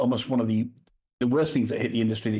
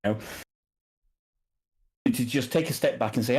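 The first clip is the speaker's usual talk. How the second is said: usual speaking voice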